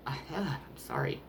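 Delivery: tearful whispered apology, breath catching; real tears, voice slipping into a hushed whisper; choked up. Real, not acted. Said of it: "Sorry, I'm so emotional".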